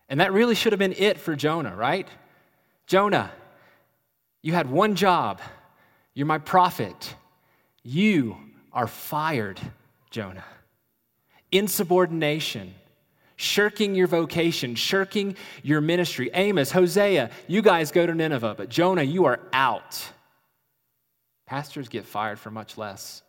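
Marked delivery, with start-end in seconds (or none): 2.9-10.4 mock stern firing. God voiced firing Jonah. 11.5-20.1 mock stern rebuke. God voiced listing Jonah's failings.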